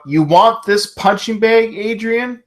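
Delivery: a mild mock yell at the crowd; mock wrestler yell. Retelling the wrestler taunting the crowd, mock yell. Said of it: "Thunderlips yells out".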